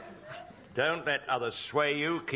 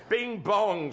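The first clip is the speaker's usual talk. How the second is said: snarled; 4 semitones higher, 4 dB louder than usual. Acted. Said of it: "snarled the burly docker".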